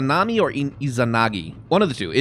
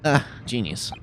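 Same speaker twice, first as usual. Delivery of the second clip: ordinary talk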